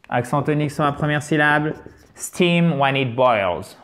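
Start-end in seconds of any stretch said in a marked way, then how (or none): 2.1-3.8 slow, deliberate steam when it boils; slow model reading. Shown as a demonstration. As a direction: read it slowly for learners. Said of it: "model phrase read slowly". (lecture lente)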